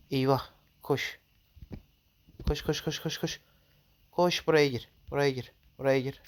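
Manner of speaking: panicked urging to run; hurry, flee in panic; being chased. Real, not acted. Fleeing the dragon in game.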